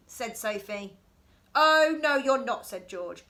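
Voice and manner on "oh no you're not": much louder, bossy; boy guarding his house, loud no; loud refusal. Acted. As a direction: bark the refusal.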